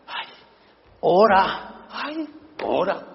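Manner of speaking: pecador quejumbroso, lento; queja. Retold or imitated. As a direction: queja lastimera y arrastrada. El pecador quejándose al pastor. (el pecador le suplica al pastor, quejumbroso)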